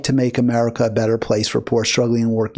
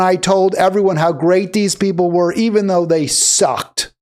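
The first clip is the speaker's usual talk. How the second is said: voicing her anger; 5 semitones higher, 3 dB louder than usual. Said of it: "She could say".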